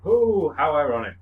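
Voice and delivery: trendy hipster voice; lightly voiced ironic hipster; bored ironic hipster. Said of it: "if anyone wants to do his voice, it has to be trendy".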